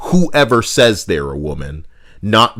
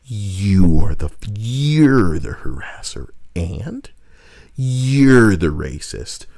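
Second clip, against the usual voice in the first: slow mock accusation; 4 semitones lower, slower than usual.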